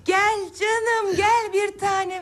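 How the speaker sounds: slow, tender encouragement; tender coaxing. Acted. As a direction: coax her gently forward. Encouraging sister's first steps.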